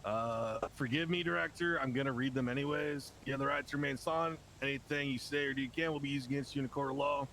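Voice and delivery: formal Miranda rights reading; reading arrest rights. Acted. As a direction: recite the rights like a cop. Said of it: "So I'm gonna read you your rights".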